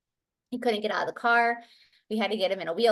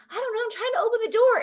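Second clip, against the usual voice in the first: high-pitched, rushed reply; fast, helpless protest as a boy; imitated flustered child; 13 semitones higher, much faster than usual. Confused son answering mother at the door, flustered imitation.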